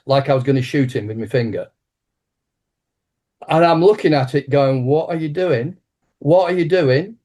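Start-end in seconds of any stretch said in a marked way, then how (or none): 4.8-7.2 panicked. Retold or imitated. Panicking at his own pointing hand.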